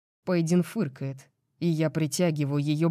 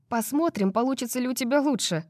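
higher, quicker teasing woman's voice; smug challenge in a higher voice; smirking female voice; 9 semitones higher, faster than usual. Acted. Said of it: "усмехается она".

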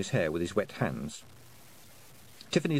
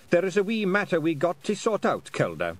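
pixie; 8 semitones higher, 3 dB louder than usual. Acted. Rob Anybody speaks.

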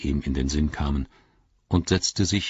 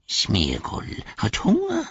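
slow, higher creature whine; Gollum voice; 6 semitones higher, slower than usual. Acted. Gollum telling Sam he is hungry, whining slowly. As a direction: stretch it out, pitiful and hungry.

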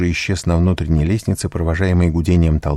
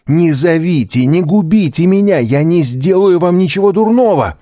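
громкая высокая испуганная мольба; умоляй о пощаде в панике; отчаянная мольба; 12 semitones higher, 6 dB louder than usual. A narrator's reading. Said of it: "растерянный, даже не видя, к кому обращается". (отчаянная мольба)

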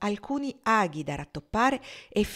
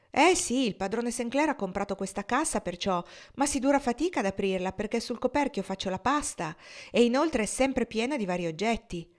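chatty servant voice pitched up; a flustered cook excusing her mess; lightly voiced, defensive old cook; Dina the cook; 4 semitones higher than usual.

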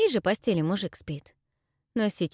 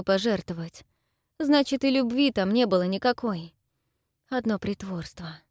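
put-on higher, pleading girl's voice; tearful young woman; 4 semitones higher than usual. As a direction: confess through held-back tears. Dayra explains widows. (голос расстроенной девушки)

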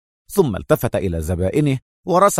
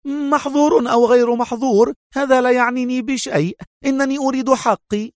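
feigned angry shout; 13 semitones higher than usual. A narrator's reading. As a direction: yell it as a show of fury. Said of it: "تظاهرها بالغضب صائحة".

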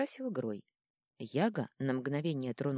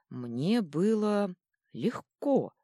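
slow; 5 semitones higher, 6 dB louder, much slower than usual. A narrator's reading. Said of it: "наконец ответил тролль".

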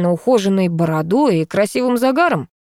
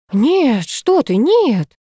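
горячо разубеждая; 7 semitones higher, much slower than usual. A narrator's reading. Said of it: "принялись жаром разубеждать".

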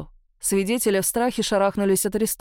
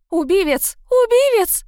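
high shrill-free scream, much higher and louder; screaming woman; 11 semitones higher, 7 dB louder than usual. A narrator's reading. Woman in the street screaming for help. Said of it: "заходилась в крике какая-то женщина".

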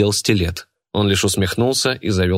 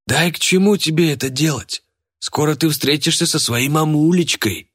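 lightly voiced mocking fat man, pitched higher; fat henchman; 8 semitones higher than usual. A narrator's reading. Fat henchman taunts the captured boy, mocking. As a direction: gloat at the captured boy in a put-on voice.

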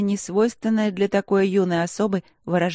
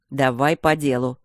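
lower, firmer command; stern order; 4 semitones lower than usual. Acted. Rector orders the gargoyle to report, lower and stern. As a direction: cut the nonsense, get to the point. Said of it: "велел Итан Бенедикт".

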